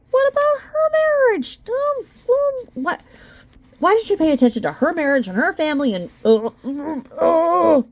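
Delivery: high, flustered what-the reaction; incredulous. Real, not acted. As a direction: sputter in outrage and confusion. Reacting in disbelief to complaint.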